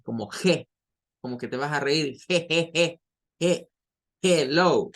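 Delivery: "hello" opened with a laughing "je", like Spanish J plus E; Spanish jota sound. Shown as a demonstration. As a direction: start "hello" on a raspy Spanish "je", as if chuckling "je, je, je". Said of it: "suena como una J y una E".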